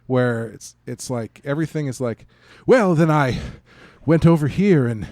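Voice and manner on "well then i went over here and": lightly hammed-up theatrical delivery, louder at the start; mock stage actor. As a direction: ham it up like a stage actor projecting. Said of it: "lame version of the Shakespearean accent".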